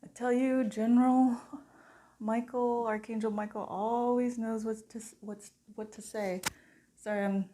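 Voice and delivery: real tearful emotion, held back; partially in tears. Real, not acted. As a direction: choke up a little while speaking. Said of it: "partially in tears right now".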